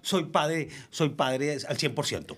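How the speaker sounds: lightly mimicked excuse, starting high and settling down; mock parental excuse. Man mimics an excuse for dropping romantic gestures, mock justifying.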